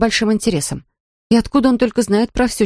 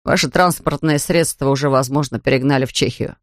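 a hint of a lower, sober officer voice; lightly voiced policeman; 5 semitones lower than usual. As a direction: read the policeman slightly lower and matter-of-fact. Policeman continues. (слегка пониженный голос полицейского)

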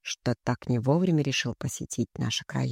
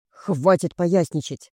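slow, louder scolding command; barked reprimand; 3 semitones higher, 6 dB louder, slower than usual. A narrator's reading. Mother cutting off her daughter's clowning by phone, barking. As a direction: bark it with stretched, emphatic words. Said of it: "рявкнули на том конце звонка".

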